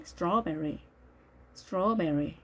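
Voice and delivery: "strawberry" with an open aw in the first syllable; careful open-aw "strawberry"; vowel between O and A. Shown as a demonstration. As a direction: model the aw of "strawberry", halfway from o to a. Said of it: "O와 아의 중간 소리".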